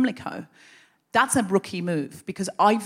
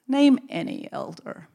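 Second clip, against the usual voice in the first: slow, menacing elder, pitched up; sinister challenge; 4 semitones higher, slower than usual. Retold or imitated. Elder testing her cover story, slow sinister challenge. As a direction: draw it out like an interrogator's trap.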